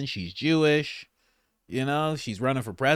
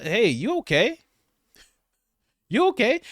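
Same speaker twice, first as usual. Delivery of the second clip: mock concern; 11 semitones higher than usual. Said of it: "mock concern".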